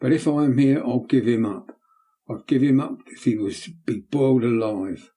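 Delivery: put-on excited boy. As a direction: fearless boy crying out to the men. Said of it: "becoming more and more excited".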